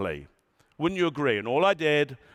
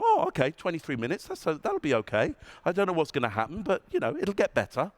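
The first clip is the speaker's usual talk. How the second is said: rising hopeful lilt; upbeat optimistic; faster than usual. Shown as a demonstration. Speaker voicing an optimistic listener, upbeat. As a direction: talk yourself into feeling fine. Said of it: "Is it upwards about me going".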